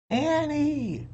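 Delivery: high calling shout of a name. A narrator's reading. Jack calls after his sister, a high carrying call. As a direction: call her name across the woods. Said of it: "he called again".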